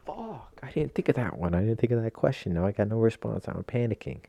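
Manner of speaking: hammed-up ordering panic; mock panic. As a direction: act out a flustered customer caught off guard. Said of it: "you're just like".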